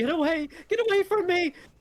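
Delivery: petrified, terrified cry, pitched very high. Eleanor backs away from the door, running from Daya: terrified Eleanor. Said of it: "And she's just terrified".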